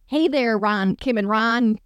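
usual speaking voice

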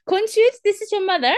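high, loud spooky call; hammed-up ghost mother; ghostly mother voice. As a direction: wail the name like a ghost. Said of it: "voice of his deceased mother".

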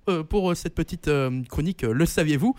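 hoarse, voice giving out; straining a voice that is gone; lost voice. Real, not acted. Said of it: "J'ai perdu ma voix en direct". (voix cassée)

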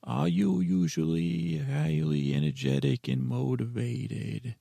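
odd, bubbly cauldron voice; weird cauldron voice. Pretend. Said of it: "the way you're talking weird".

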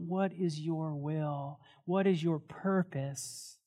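pastor closing the sermon in hushed prayer. Acted.

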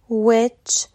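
"which" begun with a rounded W; W sound. Shown as a demonstration. Teacher giving WH examples, "which" said with W. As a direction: round the lips to start "which". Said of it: "تلفظ مشابه W".

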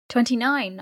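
loud, high exclamation with a falling end; exclaiming uncle. A narrator's reading. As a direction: call out the age in mock dismay. Uncle exclaims over niece's age.

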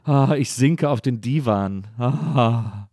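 slow, swooning theatrical sigh; lightly hammed-up fainting diva; hammy stage actor. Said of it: "eben so".

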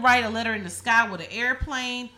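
fed-up rant, fast and loud; exasperated rant. Real, not acted.

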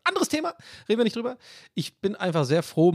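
ordinary talk, nothing marked

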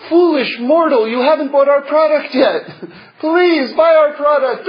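high mock villain voice, laughing; cold rasping evil emperor. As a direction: ham up a sinister emperor. Mock sinister corporate villain voice.

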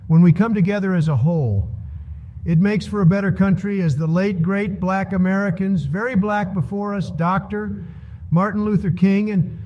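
lightly voiced Trump speech; Trump impression. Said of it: "that speech was pretty spot on. That's exactly what Trump would say".

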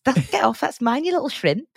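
high-pitched, almost Liverpudlian impression; Alison Hammond. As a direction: do a rough Liverpudlian-tinged TV presenter. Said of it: "that was sort of almost Liverpudlian".

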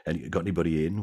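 softly voiced backstage chatter between actors; hushed backstage chat. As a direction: keep it hushed and casual, just behind the curtain. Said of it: "just chatting and talking".

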